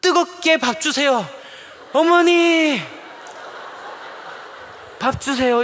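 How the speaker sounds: child's mock-fervent shout at mother; fervent plea. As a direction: overdo it like a fiery prayer to mom. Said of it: "엄마한테 아주 뜨겁게".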